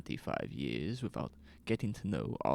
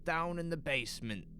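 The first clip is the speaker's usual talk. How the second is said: higher, louder, flustered store owner; a worried man pleading his innocence; nervous shopkeeper Lois; 12 semitones higher, 3 dB louder than usual. Acted. Shopkeeper explaining himself to the police, nervous and higher.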